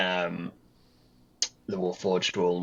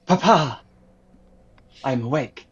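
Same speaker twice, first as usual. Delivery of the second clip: high, raised call to Papa; high character voice, calling; 7 semitones higher, 8 dB louder than usual. Acted. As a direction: announce it to your creator, pitched up. Construct calls out to its creator.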